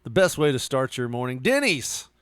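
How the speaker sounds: upbeat commercial announcer voice; mock ad read. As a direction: hawk Denny's like a TV spot. Parody Denny's ad read.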